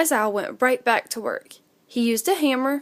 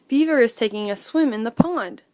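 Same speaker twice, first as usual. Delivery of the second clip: plain reading voice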